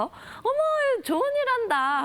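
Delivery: high, slow delighted auntie; market auntie voice. Retold or imitated. Market vendor mother voiced. (시장 어머니 흉내, 높고 느리게 감탄하며)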